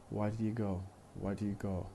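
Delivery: quick run-together question with weak "did you"; connected fast speech. Shown as a demonstration. Teacher showing learners conversational questions, connected fast speech. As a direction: squeeze "did you" small between "Why" and "go". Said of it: "we tend to use unstressed".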